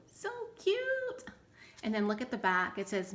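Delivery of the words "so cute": much higher squeal of delight. Real, not acted. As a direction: squeak it out like it's the cutest thing. Gushing over a pretty tag.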